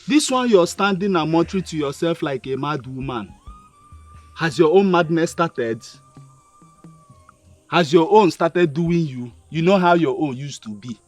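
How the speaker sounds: loud jeering mockery; mocking taunt. Mad son loudly mocking his mother, jeering. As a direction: jeer at her loudly.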